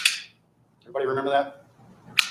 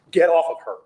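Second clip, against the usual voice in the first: raised, louder imitation of a command; acted shout; 5 semitones higher, 5 dB louder than usual. Lawyer imitates Jimmy stepping in, urgent shout. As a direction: punch it out like someone intervening. Acting out Jimmy intervening in attack.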